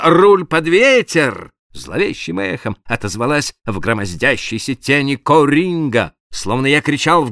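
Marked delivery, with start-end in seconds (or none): 0.0-1.5 command. A narrator's reading. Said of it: "Моя первая команда".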